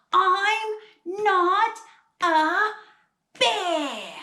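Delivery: high, loud Australian shout, word by word; silly Australian accent. Shown as a demonstration. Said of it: "shout in a silly Australian accent".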